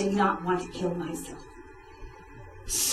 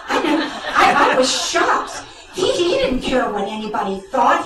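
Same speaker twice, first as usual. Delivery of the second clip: laughing; 6 semitones higher, 4 dB louder than usual. Real, not acted. Laughing while recalling shock.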